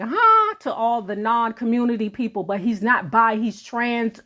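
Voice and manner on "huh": high-pitched mock "huh"; imitated puzzled reaction. Host mimics the audience's reaction, high baffled huh. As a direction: jump way up as a baffled listener. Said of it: "I know you like".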